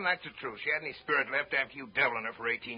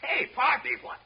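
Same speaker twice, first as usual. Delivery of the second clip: sudden high alarmed call; 11 semitones higher, slower than usual. Acted. Calls to fainting daughter.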